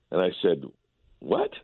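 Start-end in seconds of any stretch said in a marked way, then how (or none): 1.2-1.5 sharp high disbelieving yelp; a mock jolt of surprise; incredulous what. Reporter retelling his shock to the GM: high incredulous what. Retold disbelief at trade news.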